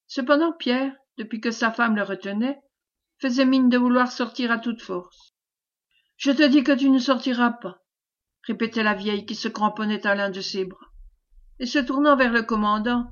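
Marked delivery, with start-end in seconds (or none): 6.2-7.8 firm, raised forbidding tone; insistent refusal. Acted. Old woman clinging to husband's arm, insistently forbidding him. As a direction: lay down the order insistently.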